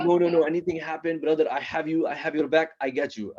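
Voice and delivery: put-on lightly accented, insistent loyal friend; Ahmed. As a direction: reassure your buddy in accented, halting English. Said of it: "kinda fresh off the boat".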